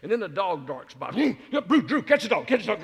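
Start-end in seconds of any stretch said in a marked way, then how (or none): 1.1-2.8 high, loud shouting through laughter; laughing shout. Retold or imitated. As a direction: yell at the kid to grab the dog. Yelling at grandson to catch dog.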